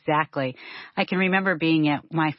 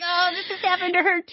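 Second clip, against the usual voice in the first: much higher, fast, amused inner voice; quick delighted recognition; reading reaction; faster than usual. Retold or imitated. Telling the author her reaction to the book, high fast and amused.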